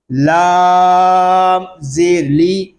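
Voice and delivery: لام زیر لی slowly spelled letter by letter; spelling out letters. Shown as a demonstration. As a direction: spell out لام زیر لی in the teacher's sing-song. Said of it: "پر، یعنی موٹا کر کے". (حروف کو الگ الگ ادا کرنا)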